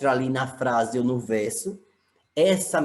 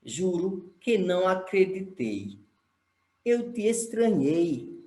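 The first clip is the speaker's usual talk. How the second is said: reciting lyrics; 4 semitones higher than usual. Shown as a demonstration. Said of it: "Abre aspas, que é uma música de um cantor".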